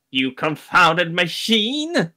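character indignation. Pretend. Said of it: "Nico just go".

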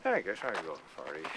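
low closed-mouth voice, teeth barely moving; Melissa impression. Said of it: "closed mouth kinda talk".

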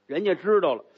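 ordinary delivery

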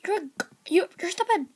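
high, far mock voice; a playful jab in a silly voice; mock insult. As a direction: tease them in a put-on voice.

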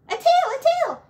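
high, loud cry of delight; joyful shout. Acted. Both possums seeing the new tail appear: joyful shout. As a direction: shout it out in pure joy. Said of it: "shouted both possums at once".

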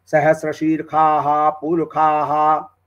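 "सहस्र शीर खा हा" with kha sounded where sha belongs. Shown as a demonstration. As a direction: slowly say "खा" in place of "शा". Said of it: "शा को खा बोलते हैं".

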